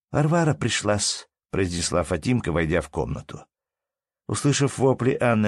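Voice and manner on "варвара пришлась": put-on servant girl. A narrator's reading. Servant child announces visitor.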